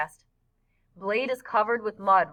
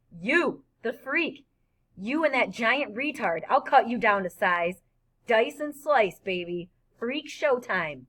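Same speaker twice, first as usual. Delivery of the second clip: taunting bully; 3 semitones higher than usual. Acted. Bully taunts the boys before attacking, mild sneering shout. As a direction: jeer like a swaggering thug.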